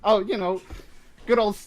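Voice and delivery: put-on Brooklyn accent. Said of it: "This is my Brooklyn accent".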